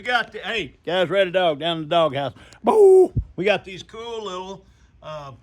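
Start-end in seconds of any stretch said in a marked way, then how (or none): 2.6-3.1 loud sudden boo; playful boo. Acted. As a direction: jump out and shout boo. Grandpa jumps in, spooks camera.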